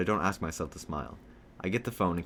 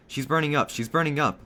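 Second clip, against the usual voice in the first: raised, high-pitched cry of alarm; panicked yell; 8 semitones higher, 6 dB louder than usual. A narrator's reading. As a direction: shout it to the whole house. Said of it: "Dad ran over and yelled".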